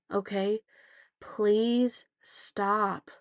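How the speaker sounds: a touch of a fed-up mother; exasperated mom. Retold or imitated. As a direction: tell the kid off, fed up. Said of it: "and I'm like".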